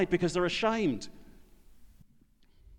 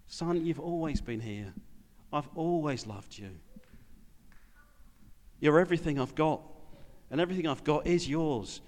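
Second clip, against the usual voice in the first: tender father. Acted. Father gently answers resentful son.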